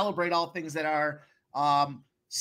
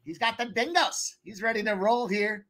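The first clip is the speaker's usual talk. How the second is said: bad Australian accent. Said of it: "That's my bad Australian accent".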